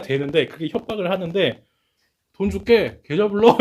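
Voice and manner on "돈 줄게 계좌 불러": unbothered. Retold or imitated. Father brushing off the scammer.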